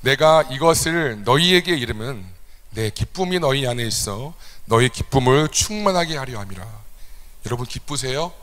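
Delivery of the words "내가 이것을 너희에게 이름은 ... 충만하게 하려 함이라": scripture reading. Shown as a demonstration. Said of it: "같이 한번 읽겠습니다".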